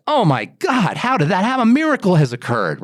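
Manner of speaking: imagined astonishment. Retold or imitated. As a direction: marvel at an impossible car change. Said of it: "You'd be like".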